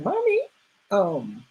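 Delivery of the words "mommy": put-on very high little-kid call; imitating a child. Host mimics the daughter calling her mother, child voice. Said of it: "baby, she's like".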